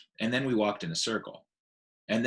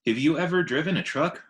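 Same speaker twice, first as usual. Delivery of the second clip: put-on higher, louder child's question; eager little elephant; 6 semitones higher, 4 dB louder than usual. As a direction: pester him like an eager child. Ruby the young elephant asks.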